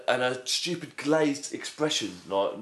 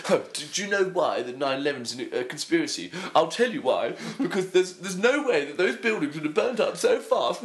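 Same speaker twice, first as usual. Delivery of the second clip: mock know-it-all; 4 semitones higher than usual. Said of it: "they'll go over and go".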